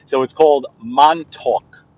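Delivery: Montauk said slowly as MON-tawk; local pronunciation. Shown as a demonstration. Correcting the co-host on the town's name. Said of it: "It's named after a town".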